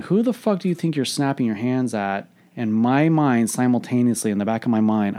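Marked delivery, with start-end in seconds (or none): 0.0-2.3 mildly indignant, higher-pitched challenge; retold snapping. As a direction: re-enact an irritated comeback with restraint. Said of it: "as I snapped at her".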